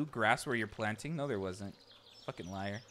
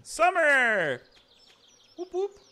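excited cheer; 12 dB louder, much slower than usual. Real, not acted. Cheering season choice.

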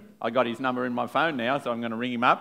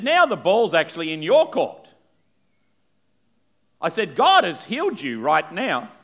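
raised, forceful challenge with long pauses; emphatic preaching; 6 semitones higher, 7 dB louder than usual. Real, not acted. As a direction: press the listener to decide, preacher style.

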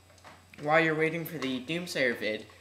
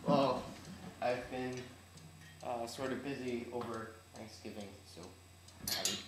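slightly odd speech around new braces; talking with braces. Real, not acted. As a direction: speak around a mouthful of braces. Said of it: "if you hear me talking kinda weird, it's 'cause I got braces".

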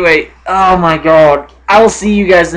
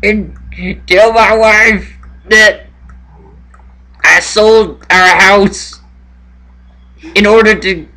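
higher, hammed-up last confession; mock tearful farewell; 5 semitones higher than usual. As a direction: deliver a halting, pretend-anguished goodbye. Astronaut's dying confession, played for laughs.

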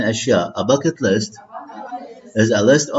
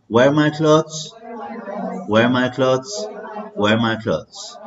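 repeated drill; slower than usual. Shown as a demonstration. Teacher repeating a phrase for learners, slowing. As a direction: drill three times, settling down. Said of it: "read with me".

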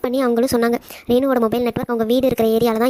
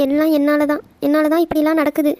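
higher, crying and blaming yourself; weeping, raised pitch; tearful self-blame; 4 semitones higher than usual. Acted. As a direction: cry it out in guilt. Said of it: "நீ வேற அழாதடி please".

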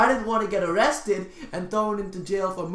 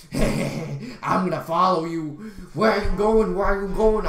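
imitated pest, growing louder; pestering jerk; 4 dB louder than usual. The guy following him around, pestering. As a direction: pester with a repeated, louder question. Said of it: "And then he's like".

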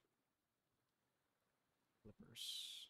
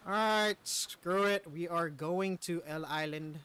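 dramatic declaration; 7 dB louder, slower than usual. Real, not acted. Giving up, announcing plan.

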